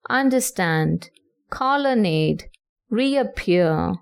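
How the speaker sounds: "understand, colonnade, reappear", each stressed on the last syllable; anapestic stress. Shown as a demonstration. Teacher gives examples of anapests, last syllable stressed in "understand, colonnade, reappear". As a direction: list underSTAND, colonNADE, reapPEAR with pauses between. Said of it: "two unstressed syllables followed by one stressed syllable".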